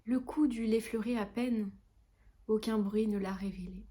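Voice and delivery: measured, lightly lyrical poem reading; gentle recital with pauses between lines; poetry recitation. Acted. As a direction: recite the verse line by line.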